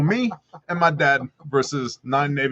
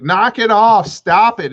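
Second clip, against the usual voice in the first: loud, higher yelling of knock it off and stop it; retold shout; 5 semitones higher, 5 dB louder, slower than usual. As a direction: bark it at the pilots like you mean it. Tommy shouting at the pilots.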